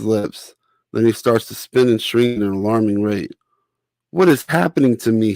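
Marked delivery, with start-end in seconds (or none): 4.1-5.3 yelling. Acted. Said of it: "he yells out".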